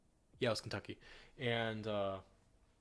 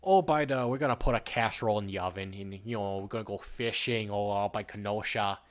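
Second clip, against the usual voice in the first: louder, hammed-up Upper Midwest local; mock Upper Midwest accent, almost Canadian; 6 dB louder than usual. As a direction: ramble like a Wisconsin fisherman in an Upper Midwest accent. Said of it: "It's almost Canadian".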